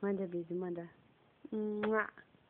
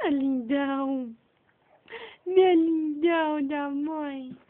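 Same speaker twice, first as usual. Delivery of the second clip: squeaky praising a dog; 9 dB louder than usual. Real, not acted. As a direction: gush with a crack of emotion. Mother gushing at baby.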